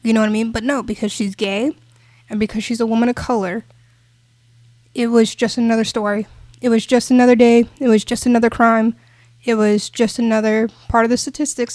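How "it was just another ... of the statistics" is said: loud, emphatic rant, hammering each repeated phrase; real worked-up ranting; impassioned rant. Real, not acted. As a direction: rant it out louder, each item punched. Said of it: "Sorry for my rant".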